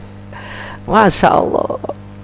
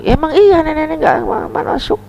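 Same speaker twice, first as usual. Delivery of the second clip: high, stammering disbelief; shocked question; 12 semitones higher than usual. Acted. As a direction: stumble over it, shocked. Aisyah asks the Prophet, shocked.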